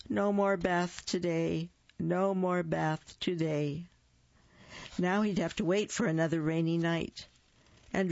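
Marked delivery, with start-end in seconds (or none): 0.1-3.9 sad song. Acted. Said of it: "trilled a sad song".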